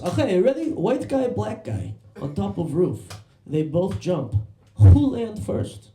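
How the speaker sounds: high mock Serbian accent, broken English; comic Serbian accent, drawing out the setup. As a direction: tell a joke as a heavily Serbian-accented driver. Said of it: "That's a Serbian accent".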